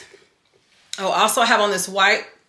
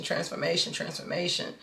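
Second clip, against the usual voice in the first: softer each time, down to a whisper; fading echo; 2 semitones lower, 8 dB quieter than usual. Shown as a demonstration. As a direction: let the word fade away like an echo. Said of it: "kept hearing was transformation".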